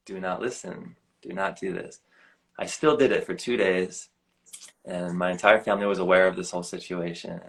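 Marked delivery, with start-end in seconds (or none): 0.1-2.0 inner warning. Retold or imitated. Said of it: "my heart was screaming out at me".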